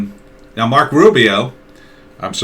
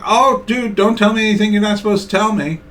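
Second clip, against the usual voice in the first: high, fast, knowing mock reassurance; higher, quick sly buddy voice; fake discreet pal; 11 semitones higher than usual. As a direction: pretend you don't want the secret. Spy handler feigning discretion.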